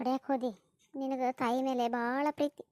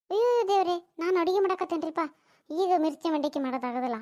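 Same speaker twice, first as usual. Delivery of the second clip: exasperated cry; 5 semitones higher, 4 dB louder than usual. Acted. Wife exasperated at demands.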